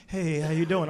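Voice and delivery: soft, timid greeting; a lightly voiced timid old man; shy. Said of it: "he would sound like, you know, a little timid".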